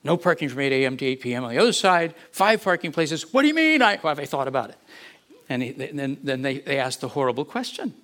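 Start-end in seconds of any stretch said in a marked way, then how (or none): 3.3-4.8 much higher and louder, incredulous; shocked disbelief. Retold or imitated. Pastor recalling his stunned reply to the board, much higher and louder. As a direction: blurt it out in disbelief.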